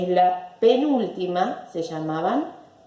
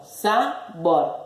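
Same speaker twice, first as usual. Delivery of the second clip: "sabor" in two separate beats; split into syllables. Shown as a demonstration. Teacher thinking out a word, syllable by syllable. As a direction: say sa, pause, bor for "sabor".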